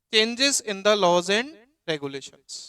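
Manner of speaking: slow, spaced dictation for notes. Shown as a demonstration. Teacher dictating a heading to students, slowly. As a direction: spell it out slowly for the class. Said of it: "आज मैं पढ़ाऊंगा".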